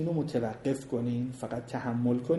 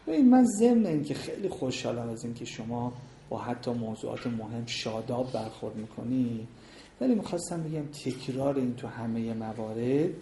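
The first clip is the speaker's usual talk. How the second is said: softer, calm demo of raising a complaint; calm spouse demo; 2 semitones lower, 4 dB quieter than usual. Shown as a demonstration. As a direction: model a gentle complaint to a spouse. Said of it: "ورودش باید اینجوری باشه". (نمایش آرام و ملایم گلایه به همسر)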